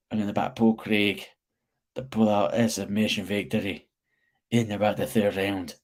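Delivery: bad, lightly put-on Scottish accent; a weak Scottish accent attempt. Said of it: "That is the worst Scottish accent ever".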